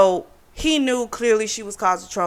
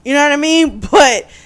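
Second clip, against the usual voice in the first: laughing; 8 semitones higher, 10 dB louder than usual. Real, not acted. Laughing at her own point.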